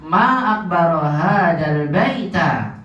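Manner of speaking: "baita" ending in a clear a; slow model, "baita" ending on a; fatha ending. Shown as a demonstration. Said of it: "maka saya patahkan". ("baita" diucapkan dengan fathah)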